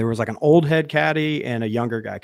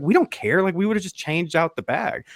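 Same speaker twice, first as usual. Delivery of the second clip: mildly exasperated; 5 semitones higher than usual. Retold or imitated. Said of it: "we're like".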